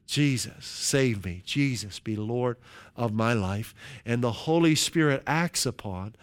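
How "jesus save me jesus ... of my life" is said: soft, low sincere plea; hushed sincere prayer; quiet prayer. Shown as a demonstration. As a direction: pray it gently, as a first call. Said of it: "We say, we call on Jesus".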